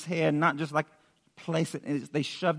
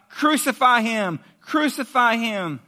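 raised, drawn-out crowd cry; 5 semitones higher, 4 dB louder, slower than usual. Retold or imitated. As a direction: call it out slowly, louder at first. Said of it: "they cried out".

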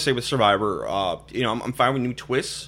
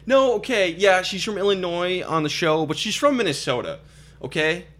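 annoyed; 6 semitones higher than usual. Real, not acted. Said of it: "annoyed about her home state".

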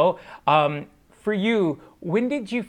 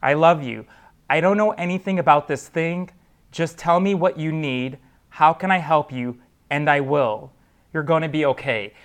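calm and steady. Retold or imitated. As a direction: read it steadily, like a father reassuring his frightened daughter. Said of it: "He very calmly and steadily said".

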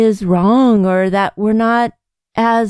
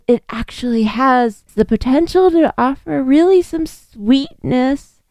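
voice cracking; 2 semitones higher than usual. Real, not acted. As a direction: voice cracks on the last word. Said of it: "Oh, my voice cracked".

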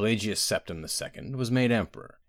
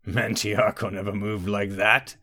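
slow, mildly amused rumble; chuckling; slower than usual. A narrator's reading. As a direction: scoff slowly with a hint of a chuckle. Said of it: "Vulcan chuckled".

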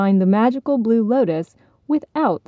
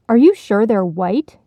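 a louder, urgent question; 5 dB louder than usual. Acted. Frog urgently questioning the fish, louder and eager. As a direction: press the fish for an answer. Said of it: "the frog asked urgently".

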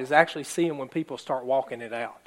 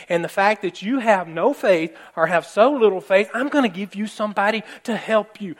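firm, rising, louder voice of God laying down the law; angry God; 4 semitones higher, 4 dB louder than usual. Retold or imitated. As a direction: speak as an exasperated God who has had enough. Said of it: "He's angry".

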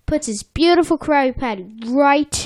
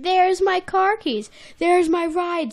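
higher, lightly voiced glee at finding keys; mock glad discovery; 7 semitones higher than usual. Bubble Bass spotting his keys, lightly voiced glee. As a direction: act a pleased find. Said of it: "says Bubble Bass".

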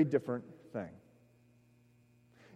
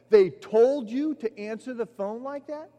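higher, louder, disbelieving echo; incredulous question; 7 semitones higher, 5 dB louder than usual. Retold or imitated. Roommate on the phone, stunned by the greeting, loud disbelief. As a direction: throw it back, amazed.

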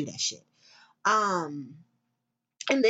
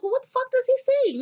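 higher, louder disbelief; louder incredulous question; 13 semitones higher, 3 dB louder than usual. Retold or imitated. Retelling her reaction to the king claim, outraged. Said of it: "And I was like".

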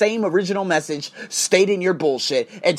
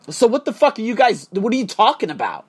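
higher, indignant "what the fuck"; exasperated outburst; 5 semitones higher than usual. Real, not acted. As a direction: fire it back at them in disbelief. Ranting at the support email.

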